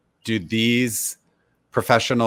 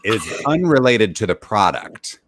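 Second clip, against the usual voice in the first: David impersonation; 4 dB louder than usual. Pretend. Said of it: "you do an incredible David impersonation".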